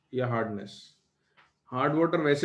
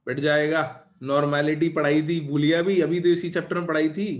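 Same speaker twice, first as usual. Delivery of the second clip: scolding; 5 dB louder than usual. Real, not acted. Teacher scolds student Utkarsh.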